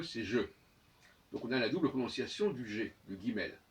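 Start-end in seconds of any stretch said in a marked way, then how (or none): 0.2-0.4 "je" said as a soft zh sound. Shown as a demonstration. Teacher demonstrating the soft G before E. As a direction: voice "je" softly like the French j. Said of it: "et devant E".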